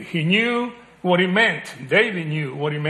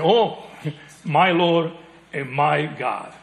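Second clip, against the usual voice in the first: awed; 3 dB louder, slower than usual. Shown as a demonstration. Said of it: "He said".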